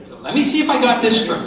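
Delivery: steady, even model line; patient employee recapping; calm recap. Shown as a demonstration. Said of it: "give her the recap".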